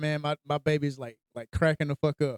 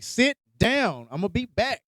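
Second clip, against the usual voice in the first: higher-pitched imitation of an insistent brother; bossy sibling order; 5 semitones higher, slower than usual. Older brother to little one at the restaurant, bossy.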